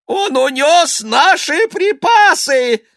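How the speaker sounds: very high, slow, loud cry; wailing yell. Acted. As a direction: bawl out the loss. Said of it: "завопил Ипполит Матвеевич".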